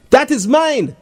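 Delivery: high, mild indignant yell; boy's mild cry of protest; shouting. Acted. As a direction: claim it back, a touch of a shout. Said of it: "Darren shouts at Jason".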